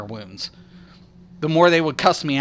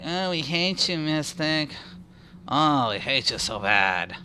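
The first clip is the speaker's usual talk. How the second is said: mocking haters; 2 semitones lower, 8 dB quieter, slower than usual. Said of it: "People are like".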